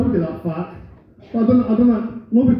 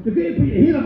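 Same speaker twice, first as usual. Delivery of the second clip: mock punks nagging; 7 semitones higher, faster than usual. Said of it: "All these punks are going".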